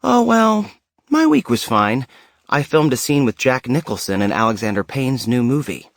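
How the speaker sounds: lightly voiced offhand dad; a hint of a father casually dropping big news. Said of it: "he casually said".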